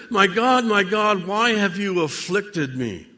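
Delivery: anguished cry. Acted. Voicing Christ calling to God from the cross, crying out. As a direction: cry it out, pleading upward.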